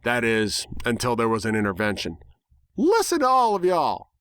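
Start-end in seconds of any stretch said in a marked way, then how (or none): 2.8-4.1 high, loud Southern filly voice; little filly voice. A narrator's reading. Apple Bloom scolds the gossiping crowd, high and loud. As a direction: cry out like an indignant little girl. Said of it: "a little voice cried out".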